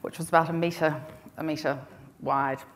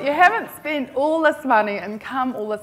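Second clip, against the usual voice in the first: louder, firm self pep talk; stern pep talk; 3 semitones higher, 6 dB louder than usual. Retold or imitated. Giving herself a talking to in the toilet, stern and rousing. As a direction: give yourself a jolly good talking to. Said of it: "a jolly good talking to".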